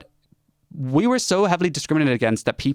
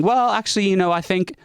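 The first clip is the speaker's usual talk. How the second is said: high-pitched, tentative mock objection; mock cautious objector; 8 semitones higher than usual. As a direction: imitate someone timidly raising a doubt, pitched up. Voices a hesitant vaccine doubter.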